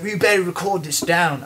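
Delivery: hammed-up French archaeologist accent. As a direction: order it in a silly French accent. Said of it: "um, French".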